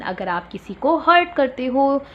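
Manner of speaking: usual speaking voice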